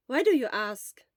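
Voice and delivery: loud curious question; lightly voiced friend; Hisashi's voice.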